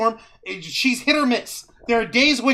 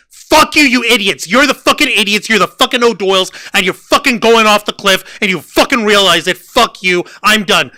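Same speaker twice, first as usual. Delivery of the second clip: angry rant; 6 dB louder than usual. Real, not acted.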